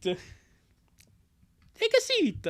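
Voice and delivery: very slow, drawn-out high Chris Hansen; Chris Hansen impression. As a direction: stretch each word like a TV host. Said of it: "trying to do the Chris Hansen impression".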